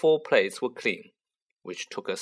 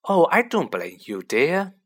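reassuring; 5 semitones higher, 5 dB louder than usual. A narrator's reading. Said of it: "she assured Harry".

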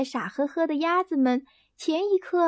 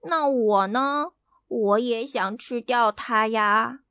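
complaining; slower than usual. Acted. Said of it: "小猫抱怨道".

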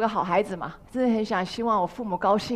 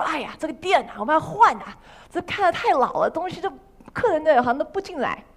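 eager pitch; 6 semitones higher than usual. Retold or imitated. Pitching a shop makeover to parents.

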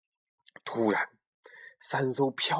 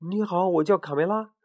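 shy greeting; 5 semitones higher than usual. Acted. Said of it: "有点胆怯地打了声招呼".

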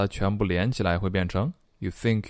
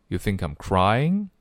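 barely touch "I'm" before "crying"; light "I'm", rising stress on "crying". Shown as a demonstration. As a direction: keep "I'm" weak, stretch "crying" upward. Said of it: "I会读得比较轻".

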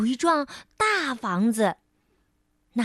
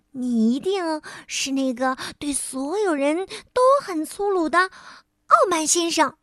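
elf voice; 3 semitones higher than usual. Acted.

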